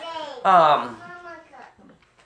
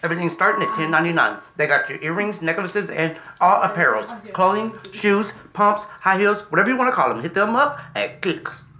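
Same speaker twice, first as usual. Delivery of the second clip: quick-fire shop promo; fast ad read; 3 semitones higher than usual. Real, not acted. Host hurrying through a shoe store plug, fast talking. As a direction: rattle off the sponsor plug. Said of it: "Why you talk so damn fast?".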